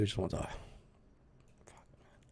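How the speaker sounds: choked whisper, voice cracking as emotion takes over; fighting back tears, barely getting it out; voice breaking. Real, not acted. Reading a girl's texts to her father, choked whisper.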